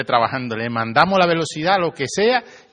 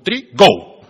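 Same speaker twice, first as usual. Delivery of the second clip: "go" jumps louder and higher, playful; mock count-off; 4 semitones higher, 10 dB louder than usual. Daughter counting off to her father at the stop sign, then bursting into "go". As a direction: blurt the "go" like rushing off.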